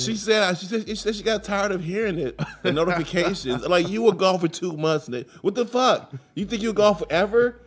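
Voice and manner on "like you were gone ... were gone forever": high, louder sarcastic scolding; incredulous teasing rant; mock outrage. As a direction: needle the wife about her time away.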